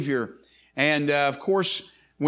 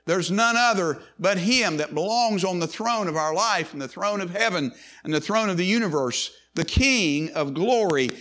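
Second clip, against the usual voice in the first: rising preacher's proclamation, pitch lifted; preaching; 3 semitones higher than usual. Acted. Pastor proclaiming Christ as king to the congregation, rising preacher's voice. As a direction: proclaim his kingship to the congregation.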